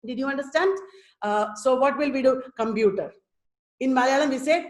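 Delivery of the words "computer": "Computer" level on every syllable; quick "Computer" with no syllable standing out; no pitch difference. Shown as a demonstration. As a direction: say "Computer" evenly, Malayalam style. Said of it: "No pitch difference".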